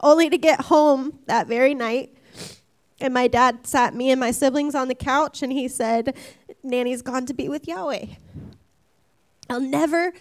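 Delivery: tearful telling, voice strained; crying. Real, not acted. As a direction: speak through real tears. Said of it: "I'm gonna ugly cry through the whole thing".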